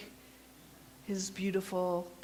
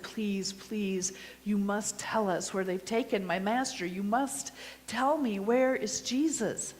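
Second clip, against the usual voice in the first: pleading; 2 semitones higher than usual. Acted. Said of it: "I just pleaded with him again".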